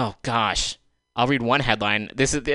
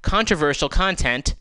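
Controversial content said higher and louder, mocking; scare quotes; 5 semitones higher, 4 dB louder than usual. Shown as a demonstration. Mocking the article's word to her listeners, sarcastic. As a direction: put audible quotation marks round "Controversial". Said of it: "Controversial should be in quotation marks".

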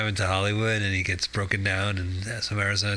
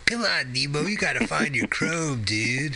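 surfer turtle voice; 5 semitones higher than usual. Retold or imitated. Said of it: "He's that turtle from Finding Nemo".

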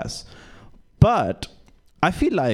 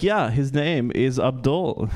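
laughing punchline; slower than usual. Real, not acted.

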